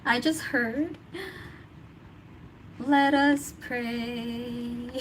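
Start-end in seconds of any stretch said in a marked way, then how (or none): 2.8-4.9 slow, drawn-out preacher intoning; solemn church prayer call. Retold or imitated. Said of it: "That's in church".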